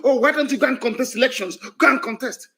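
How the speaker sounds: high-pitched, amused mimicry; mocking quote. Mimicking those urging election contests.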